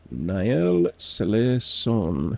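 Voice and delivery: Niel Selson drawn out syllable by syllable, very slow; first attempt at the name; slow careful try. Shown as a demonstration. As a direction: sound out Niel Selson slowly. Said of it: "definitely not cut out to learn languages".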